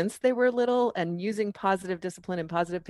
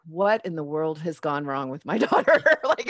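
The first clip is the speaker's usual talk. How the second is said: laughing; 2 semitones lower than usual. Real, not acted.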